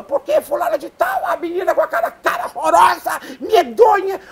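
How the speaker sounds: put-on very high, loud old gossip shrieking; Dona Santinha. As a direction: shout the gossip like a shrill old busybody. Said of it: "e aí ela falava".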